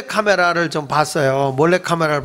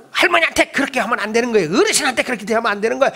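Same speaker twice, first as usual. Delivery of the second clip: quick, raised scolding of the staff; imitated fast scolding; 4 semitones higher, much faster than usual. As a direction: rattle off a mock telling-off, fast. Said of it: "막 야단을 치는 거야".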